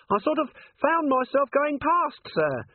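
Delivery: very high, strained little voice; frightened dwarf corporal. A narrator's reading. Littlebottom dangles from the candle line, squeaking anxiously. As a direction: squeak it out while straining to hold on.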